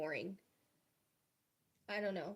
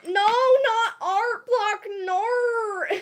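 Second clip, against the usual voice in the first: laughing cry; 11 semitones higher, 11 dB louder, slower than usual. Real, not acted. Reacting to chat, laughing.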